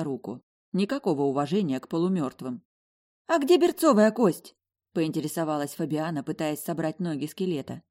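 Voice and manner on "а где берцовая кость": put-on higher, louder puzzled girl; confused roommate asking. A narrator's reading.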